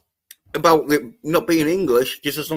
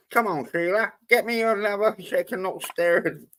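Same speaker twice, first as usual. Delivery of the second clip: mock Australian; 4 semitones higher than usual. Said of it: "you gotta do the accent".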